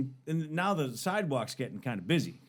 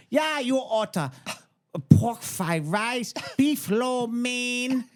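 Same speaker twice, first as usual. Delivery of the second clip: put-on high, loud, slow Asian accent; insistent prank caller's put-on Asian accent; mock Asian accent; 11 semitones higher, 5 dB louder, much slower than usual. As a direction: stretch out the menu in a caricatured Asian accent. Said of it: "you can't do an Asian accent".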